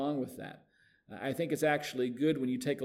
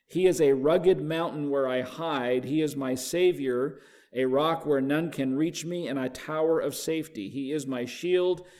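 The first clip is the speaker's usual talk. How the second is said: scripture reading; 4 dB louder than usual. Acted. Pastor reading the psalm to the class, measured and emphatic. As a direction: read it out like from the pulpit. Reads Living translation aloud.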